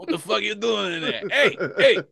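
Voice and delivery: high, loud calling out with laughter; mock hollering. Carmen calling into the bathroom, laughing mock shout. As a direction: pester someone through a closed door.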